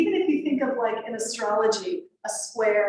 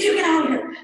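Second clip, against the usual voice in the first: louder, higher mock shout to drive someone off; a sharp, startled retold yell; 8 semitones higher, 7 dB louder, faster than usual. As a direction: fling it out like warding off an attacker. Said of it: "I was like".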